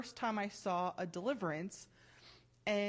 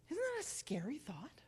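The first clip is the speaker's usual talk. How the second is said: whispered aside, higher and softer; spooky whisper; 6 semitones higher, 5 dB quieter than usual. Real, not acted. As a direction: lean in and whisper it like a secret. Rhetorical aside to congregation.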